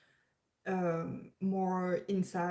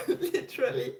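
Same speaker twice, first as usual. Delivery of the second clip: laughing through tears; 4 semitones higher than usual. Real, not acted. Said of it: "I was crying".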